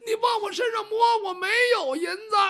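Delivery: 又高又响地哭着喊冤; 挨了嘴巴，哭叫着辩白. Acted. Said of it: "这门栓就哭了". (仆人挨打后哭喊喊冤)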